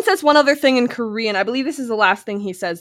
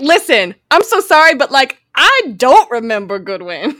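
hammed-up Southern impression of an apology; Jenna Marbles; 3 semitones higher, 5 dB louder than usual. Podcaster voicing Michael's refusal, mock Southern accent. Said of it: "Why is Michael suddenly Southern?".

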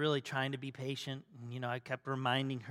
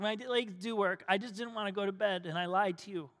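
mildly voiced tearful child confessing, slightly higher; retold tearful confession; 3 semitones higher than usual. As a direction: lightly imitate a child owning up in tears. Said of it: "the tears just started flowing".

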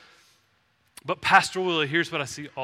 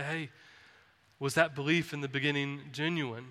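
a gentle, softer loving challenge; lovingly; 2 semitones lower, 5 dB quieter than usual. Shown as a demonstration. Pastor to congregation, lovingly and softly. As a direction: ask it tenderly, like a friend. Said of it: "I would just lovingly say".

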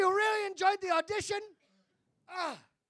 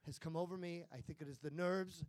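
low, hoarse, much softer lost voice; voice gone; 13 semitones lower, 14 dB quieter than usual. Real, not acted. Auditioner apologizes to Andy with his voice gone. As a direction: speak through a voice that has given out. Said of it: "Oh, my voice".

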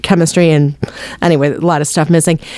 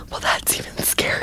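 hushed spooky whisper; 12 dB quieter than usual. Pretend. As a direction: breathe it like a ghost story. Spooky joke about a bug ghost.

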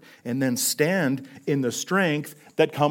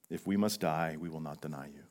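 quiet echo; 8 semitones lower, 10 dB quieter than usual. Retold or imitated. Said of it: "join him and say the same thing".

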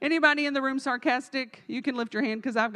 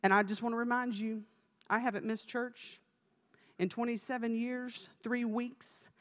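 softer, self-righteous prayer voice, slowing at the end; mock pious prayer; 5 dB quieter than usual. Churchgoer reminding God of a perfect attendance record, mock pious hush. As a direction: pray like someone bargaining with God over attendance.

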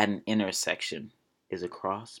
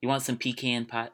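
put-on country accent; 2 semitones higher, 4 dB quieter than usual. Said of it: "Ooh, that's so country".

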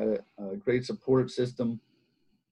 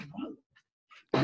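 a whispered, baffled what; stunned whisper; 6 dB quieter than usual. Retold or imitated. Flipped over by the kid, stunned whisper. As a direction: breathe it out in disbelief. Thrown flying by the high-schooler.

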